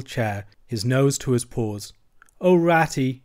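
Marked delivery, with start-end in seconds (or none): 2.4-3.2 higher, louder pleading cry of despair; dismal cry. Acted. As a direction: call out to Ratty in misery. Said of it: "he cried dismally".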